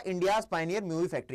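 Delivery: slow, deliberate key phrase; slow dictation. Shown as a demonstration. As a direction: dictate it slowly. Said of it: "कि ये क्या था".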